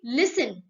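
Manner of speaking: "लिसन" with the T left silent. Shown as a demonstration. Teacher shows students a silent letter, T unsounded in "लिसन". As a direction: say "लिसन" with no T sound. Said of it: "टी की आवाज नहीं आती".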